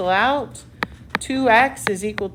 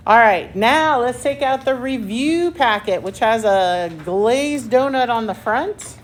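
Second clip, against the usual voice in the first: game show host. Real, not acted. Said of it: "Do I sound like a game show host".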